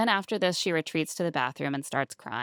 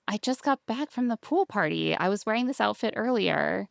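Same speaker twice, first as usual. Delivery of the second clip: higher-pitched mock bewilderment; imitated incredulous girlfriend; baffled questioning; 5 semitones higher than usual. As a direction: retell her puzzled concern, pitched up. Retold baffled girlfriend questioning him.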